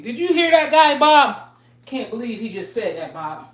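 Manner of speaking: high, loud scandalized whine that sinks back; mock shocked soft guy. Mocking sensitive people who want soft talk, high shocked voice. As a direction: play the offended listener, then let it drop. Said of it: "That's how they talk".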